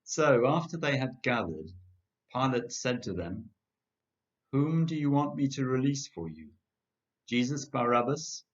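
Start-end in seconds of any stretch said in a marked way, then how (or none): 4.5-8.4 raised, higher call to a crowd. A narrator's reading. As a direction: project it out over the crowd. Governor calls out to crowd.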